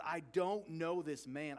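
slow, emphatic mock outburst; retold losing-his-mind denial, slowly hammered out; exasperated denial. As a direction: deny it word by word, mildly worked up. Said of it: "Peter loses his mind".

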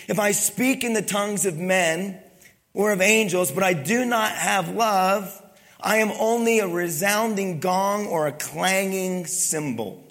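slow, measured reading from the pulpit; preacher reading the Bible aloud; scripture reading. Acted. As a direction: read each verse slowly and solemnly. Reads scripture in held style.

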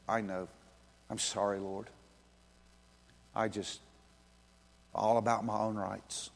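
soft, low, humbled confession; contrite prayer. Acted. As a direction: confess quietly to the Lord. Acting a contrite prayer to Jesus.

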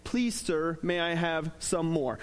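lightly voiced English orphan boy, timid; a touch of a timid English accent. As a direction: plead politely in a mild English accent. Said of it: "he says in his English accent".

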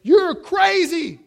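loud, high, slow yell; yelled accusation. Retold or imitated. Heckler yelling at the preacher mid-sermon, loud and slow. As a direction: hurl it at the preacher. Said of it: "stands up and says".

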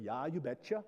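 playful Upper Midwest Norwegian lilt; northern Norwegian accent. Shown as a demonstration. Preacher joking about winning over relatives' hometown, in northern Norwegian accent. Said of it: "throw in a little northern Norwegian accent".

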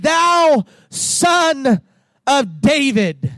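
urgent cry to Jesus. Retold or imitated. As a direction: cry "Thou Son of David" as a plea. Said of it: "they cried out and said".

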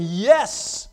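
overwhelmed with joy at finally seeing; joyful awe. Acted. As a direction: cry out like a man seeing his maker for the first time. Healed man rejoices at seeing Jesus.

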